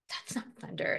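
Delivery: mildly fearful, voice dropped away; understated nervous unease; shivering. Acted. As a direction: say it with a little shiver. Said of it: "shivered Evergreen".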